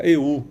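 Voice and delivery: "eu" leaned on where the melody is weak; a light mock of the badly stressed "eu"; misplaced stress on eu. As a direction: imitate "eu" sung stressed at the wrong moment. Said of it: "ela acentua no pon-, no momento errado".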